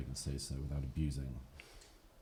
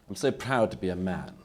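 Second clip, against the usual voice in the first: proudly declared, a little raised; mock proud declaration; 3 semitones higher, 4 dB louder than usual. Speaker mocking identity pride to a debate audience, mild mock pride. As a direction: parody a self-satisfied speaker. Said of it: "The unsupportable phase is".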